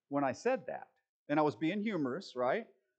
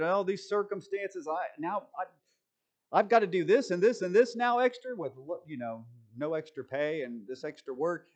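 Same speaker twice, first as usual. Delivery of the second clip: mock complaining. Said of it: "I was complaining".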